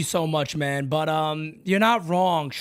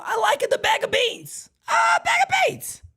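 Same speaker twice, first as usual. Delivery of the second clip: high, squeaky mock British accent, hammed up; lightly ape the caller's British accent. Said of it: "I'm not even gonna try to do the accent".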